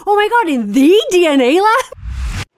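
high, loud, slow astonished gush; hyper enthusiastic. Retold or imitated. Imitating Kevin Owens reacting to the lab, hyper enthusiastic. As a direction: stretch it out in mock amazement. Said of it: "doing the thing where he's hyper enthusiastic".

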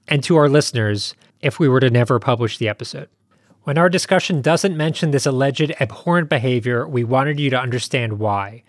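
measured, serious host statement; formal announcement. Real, not acted. Host warns listeners before the episode, formal and measured. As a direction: read out a sober notice to listeners.

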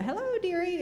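put-on high, sweet old-lady greeting; elderly singsong. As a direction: coo it like a kindly granny. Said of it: "like a really pleasant-looking woman".

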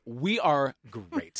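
very slow, stretched-out boast; hammed-up bragging; mock self-congratulation. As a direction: parody a nation praising itself, drawing out each word. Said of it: "and we're like".

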